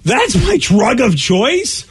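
slow questioning disbelief; mock-baffled, stretched words; incredulous quote. Host repeats caller's line in disbelief.

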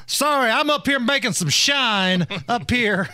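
lightly hammed-up moonshiner voice; host riffs as a moonshining hillbilly; mock hillbilly accent. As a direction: play a backwoods hillbilly, teasing. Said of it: "talking like a backwoods redneck".

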